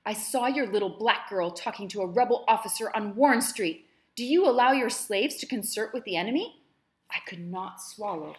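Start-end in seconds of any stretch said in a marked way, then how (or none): 0.0-6.6 mocking mimicry. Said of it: "put a mimicking face".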